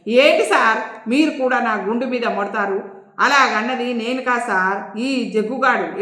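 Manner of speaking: slow, aggrieved whine; whiny near-tears. Acted. Servant whining after a knock on the head, mock tearful. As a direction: complain like a scolded child. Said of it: "ఏడుపోహం పెట్టి".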